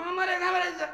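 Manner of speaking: high squeaky little voice; mock insect voice. Preacher voicing a swatted bug, squeaky and high. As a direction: play the tiny bug's plea. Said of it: "পোকারে মাইরা কয়".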